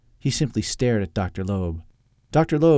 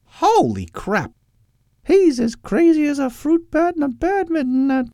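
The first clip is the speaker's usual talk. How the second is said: very high, loud mock whisper; high stage whisper; 5 dB louder than usual. Topper confiding in Edwin about Loeb, mock stage whisper. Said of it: "he whispered as he left".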